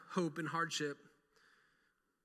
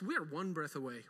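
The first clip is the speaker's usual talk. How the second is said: soft repeat; 4 semitones lower, 6 dB quieter than usual. Acted. Preacher softly warning the congregation, hushed. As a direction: drop to a hushed, softer tone.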